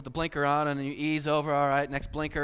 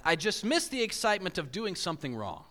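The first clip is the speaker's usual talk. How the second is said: quoted line; 4 semitones higher than usual. Retold or imitated. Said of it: "And his quote said this".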